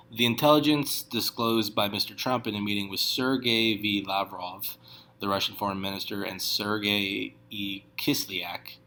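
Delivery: plain news-reading voice; reading the news aloud. Acted. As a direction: read the report out to viewers. Reads news article aloud.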